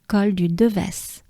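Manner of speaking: "Devès" with the final s sounded; corrected French pronunciation. Shown as a demonstration. Teacher correcting herself on the climb, final s sounded. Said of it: "correct myself and say".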